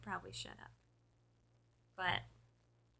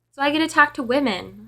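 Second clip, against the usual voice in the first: creepy caller imitation; 4 semitones higher than usual. Retelling the creepy caller's repeat.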